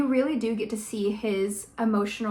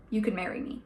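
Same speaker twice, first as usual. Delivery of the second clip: soft, low-key proposal; very softly; 3 semitones lower, 6 dB quieter, faster than usual. A narrator's reading. Reading a proposal from the book aloud, softly. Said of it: "Very softly".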